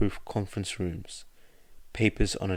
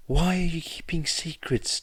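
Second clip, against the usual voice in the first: high, demanding question; demanding echoing voice; 10 semitones higher than usual. A narrator's reading. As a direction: press him for answers in an eerie voice. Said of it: "demanded Suzuki, his voice echoing".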